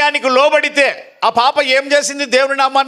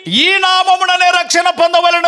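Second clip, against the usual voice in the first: calling out; 4 semitones higher, 3 dB louder, slower than usual. Real, not acted. Preacher calls out the verse.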